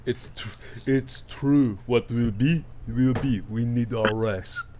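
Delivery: a light hint of a Gerard Depardieu French accent; a lightly French, weary plea to go to sleep; Depardieu-ish French. Craucus urging everyone to sleep, with a hint of French accent. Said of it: "a little bit of Gerard Depardieu happening in that voice".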